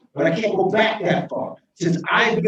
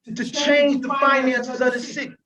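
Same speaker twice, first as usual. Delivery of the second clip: mayor pleading with the council, raised and emotional; impassioned; 4 semitones higher than usual. Real, not acted. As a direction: drive the point home with real passion. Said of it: "I'm getting emotional because".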